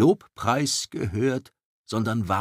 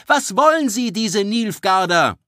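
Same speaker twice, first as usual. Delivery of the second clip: much higher and louder Was wollen sie, peak of alarm; shrieking cry; 13 semitones higher, 10 dB louder than usual. Acted. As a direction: hurl the question at the crowd. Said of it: "rief Vera Löwenhaupt". (sehr hoch und laut, empört)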